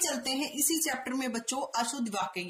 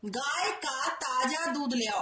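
slow careful reading; slower than usual. Shown as a demonstration. Teacher dictating the correct sentence slowly to children. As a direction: dictate the fix calmly. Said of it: "सही करेंगे".

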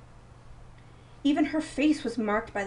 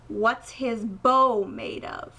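slow, stern challenge, a bit louder; strong, commanding; 4 dB louder, much slower than usual. Acted. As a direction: demand the answer like thunder. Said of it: "her voice was swift as lightning and strong as thunder".

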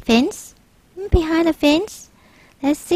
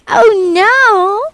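panicked cry; 8 semitones higher, 5 dB louder than usual. Acted. Boy panics at the shark.

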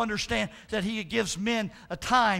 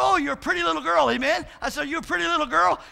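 put-on higher, fast sweet baby talk; cooing to pet; 4 semitones higher, faster than usual. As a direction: coo to the parrot. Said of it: "cooing to the parrot".

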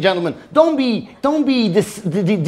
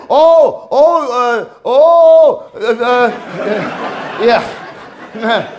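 mocking theorists; much slower than usual. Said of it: "people that say".

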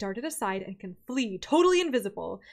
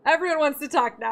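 louder, with everyone stressed; a louder, exasperated take of everyone wants to talk now; mock exasperated; 3 semitones higher, 6 dB louder than usual. Shown as a demonstration. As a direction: complain in mock frustration about everyone talking. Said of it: "first take plain".

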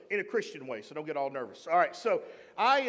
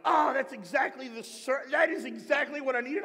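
higher-pitched delighted quote; excited realization; 5 semitones higher than usual. Retold or imitated. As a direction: act out an excited discovery. Retells delighted reaction to another sermon.

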